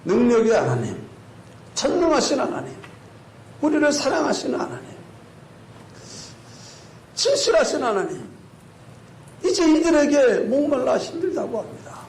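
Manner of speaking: high, fervent acted prayer; imploring prayer with pauses; praying aloud. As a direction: call on God phrase by phrase. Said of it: "하나님께 기도합니다".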